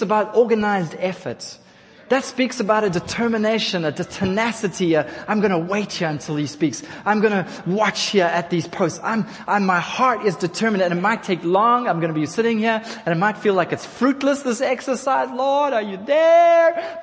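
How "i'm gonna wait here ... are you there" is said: imitating a patient seeker, rising to a plea; a waiting believer, rising into a cry; determined seeker. Preacher voicing a believer waiting on God, building to a plea.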